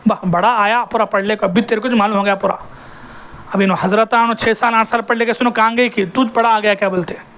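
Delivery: lightly acted scornful jibe; imitated taunt. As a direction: imitate dismissive taunts under the preaching pitch. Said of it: "جیسے آج تانے دے رہے نہیں".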